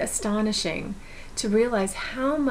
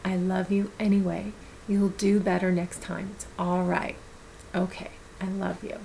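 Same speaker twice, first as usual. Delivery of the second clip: tender self-comfort; 2 semitones lower than usual. Retold or imitated. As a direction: hush it kindly, like comforting a friend. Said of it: "I run to the mirror and I go".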